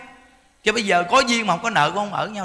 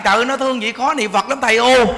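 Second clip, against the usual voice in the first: laughing mock complaint; 3 semitones higher, 4 dB louder than usual. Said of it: "mấy bà nói rằng".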